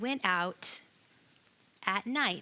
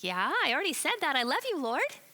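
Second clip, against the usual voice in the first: a bit exasperated; 4 semitones higher, 4 dB louder than usual. Acted. Peter asked a second time.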